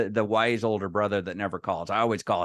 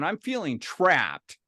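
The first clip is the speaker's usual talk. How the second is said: slow, higher, drawn-out admission; mock confession; 4 semitones higher, slower than usual. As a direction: own up with comic anguish. Confesses he bought the idea.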